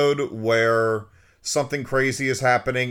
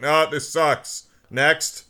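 slow, higher drawn-out dismissal; dismissive rejection; 5 semitones higher, slower than usual. Retold or imitated. Crusher rejecting Worf's audition, blunt dismissal. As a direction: wave away the auditioner, mock bored.

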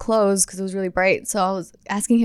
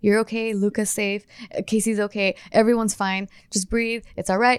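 soothing self-talk; 3 semitones lower, 3 dB quieter than usual. Retold or imitated. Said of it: "I kept talking to myself".

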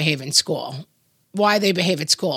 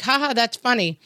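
fake laugh; 5 semitones higher than usual. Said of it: "I'm like".

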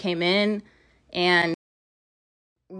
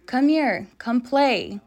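high, coaxing ghost call; eerie child voice; 4 semitones higher, slower than usual. Retold or imitated. Ghostly voice calling the girl to come play, high and coaxing. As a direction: lure her in sweetly, pitched up.

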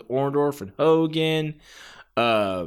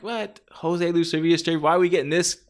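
grumbling crowd; 4 semitones higher than usual. Retold or imitated. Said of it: "the crowd might be like".

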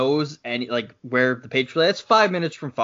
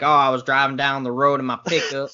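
over-the-top Southern accent. Shown as a demonstration. Podcaster showing how people overdo it, hammed-up Southern accent. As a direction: lay the Southern accent on thick. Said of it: "the over the top".

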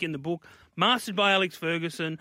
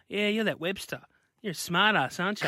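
Eddie impression; 3 semitones higher than usual. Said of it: "my first conversation with him".

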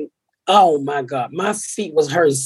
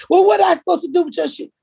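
mimicking Pam; 14 semitones higher, faster than usual. Quoting Pam's reply.

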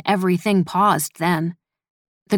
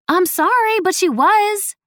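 put-on very high, louder teenage whine; whining; 13 semitones higher, 4 dB louder, slower than usual. A narrator's reading. Teen defending herself at dinner, high whine. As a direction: whine your apology, insisting you're right. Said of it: "Nettie whined".

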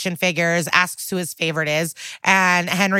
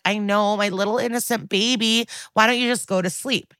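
mild mock cooing; 3 semitones higher than usual. Mom sending her son to sleep, mild mock cooing. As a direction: lightly imitate a doting mommy, pitched up.

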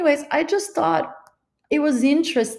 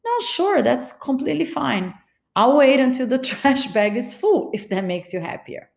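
mock agreeable; 3 semitones higher than usual. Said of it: "So I would look at him and be".

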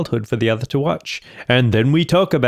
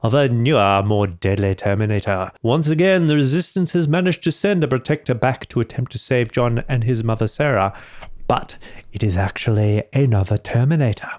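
measured, deliberate film-synopsis narration; synopsis read. Acted. Podcaster giving a quick synopsis of the film, measured read. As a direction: read it out like a movie blurb.

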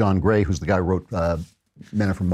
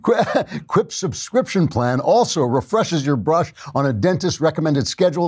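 trying not to laugh; 5 semitones higher than usual. Real, not acted. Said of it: "I'm losing it".

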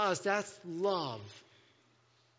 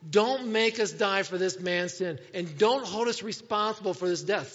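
emphatic, raised-voice plea; pleading; 5 dB louder than usual. Acted. Sailors beg God not to blame them, emphatic pleading. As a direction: plead firmly for mercy. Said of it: "they pleaded".

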